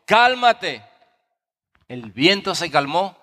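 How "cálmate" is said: rising firm command to the sea; commanding order. Acted. Jesus orders the wind and sea, firm command. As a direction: command the storm to stop. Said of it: "ordenó al mar".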